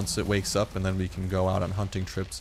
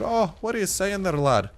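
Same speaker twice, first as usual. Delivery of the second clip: botched British accent, pitched up; higher-voiced, unconvincing British lad-talk; attempted British accent; 9 semitones higher, 3 dB louder than usual. Shown as a demonstration. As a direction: have a clumsy go at sounding British. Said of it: "I got a British one".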